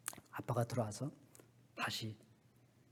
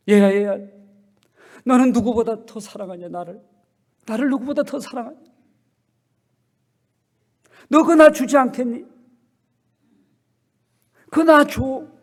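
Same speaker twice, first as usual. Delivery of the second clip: a hint of God calling; 9 semitones higher, 16 dB louder than usual. God voiced asking his child.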